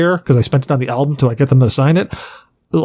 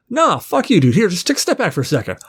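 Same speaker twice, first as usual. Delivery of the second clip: higher, joking fuck you; playful singer; 5 semitones higher than usual. Retold or imitated. The singer overrules the ushers for the fan, higher playful voice. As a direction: wave off the ushers, laughing it off. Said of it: "he's like".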